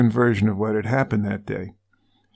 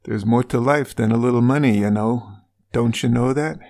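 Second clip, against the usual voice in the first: put-on light Minnesota accent, Marge-style; a hint of a Fargo Minnesota accent. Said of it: "How's, how's my Minnesota accent?".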